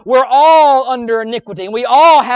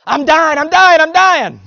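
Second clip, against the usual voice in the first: higher, louder hammed-up complaint; mock husband whine; 4 semitones higher, 4 dB louder than usual. Preacher mocks a husband whining when supper's late, hammed-up. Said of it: "supper's not ready on time".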